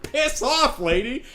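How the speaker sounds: high loud snap; angry horse shouting; horse yells. Retold or imitated. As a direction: yell her off, high and sharp. Horse snaps at woman.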